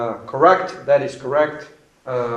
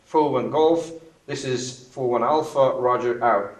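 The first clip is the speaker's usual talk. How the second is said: calm radio call. Shown as a demonstration. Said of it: "And here it comes".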